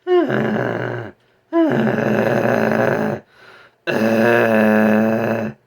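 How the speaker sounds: loud rasping throat growl; deep rasping growl. Shown as a demonstration. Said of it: "in my throat towards, towards the back here".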